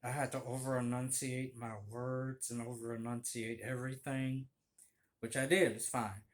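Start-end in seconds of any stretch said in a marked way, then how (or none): 0.0-3.6 over-enunciate through a jaw wired shut; words pushed out past clenched teeth; talking with wired jaw. Shown as a demonstration. Man with wired jaw showing how he had to talk, teeth shut. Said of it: "I was talking like this".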